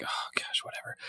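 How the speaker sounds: breathy under-the-breath whisper; a resigned whispered shrug; whispered aside. Retold or imitated. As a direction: mutter it to yourself, barely voiced. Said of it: "And I was like".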